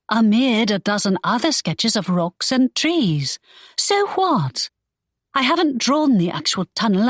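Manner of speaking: defiant shrug of a reply; Imogen retorting. Acted. Imogen brushing off Draco's worry, defiant.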